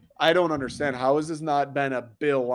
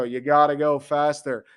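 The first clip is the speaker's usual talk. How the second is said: mock megaphone cop; 5 dB louder than usual. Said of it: "use the megaphone and go".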